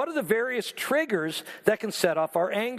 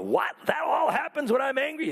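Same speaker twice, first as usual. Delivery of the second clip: startled what, then a raised disbelieving shout; mock shocked listener; 5 semitones higher than usual. Congregant reacting to the preacher, mock shocked shout. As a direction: play the stunned congregant hearing this.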